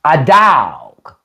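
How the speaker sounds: A DOG with a long drawled "dawg"; country "a da-awg"; down-South dog. Shown as a demonstration. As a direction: stretch "dog" out Southern-style. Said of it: "when you down south".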